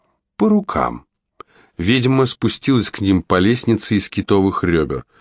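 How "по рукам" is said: seal the deal coldly; grudging witch. Acted. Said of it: "согласилась она".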